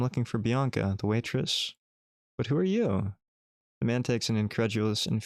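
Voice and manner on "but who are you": put-on a light touch of a drunk old man; suspicious old man. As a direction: challenge the stranger at your door.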